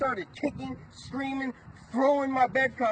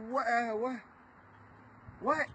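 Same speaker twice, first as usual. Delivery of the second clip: stunned disbelief; 3 semitones higher, 3 dB quieter than usual. Retold or imitated. Felons stunned at his return.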